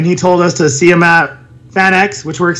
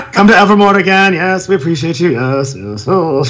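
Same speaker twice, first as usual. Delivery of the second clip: hammed-up upper-crust British host; slightly overdone British gent's accent; old-school British accent. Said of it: "I made him sound more old school".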